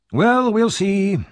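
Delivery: high, slow, loud mocking doubt; sceptical old man. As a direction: drag it out knowingly. Grimwig doubts, teasing.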